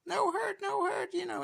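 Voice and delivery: very high, tiny alien pleading; little alien voice. Retold or imitated. Nice little alien begging the Rangers, tiny high squeak. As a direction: squeak it like a gentle little creature. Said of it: "The nice little alien says".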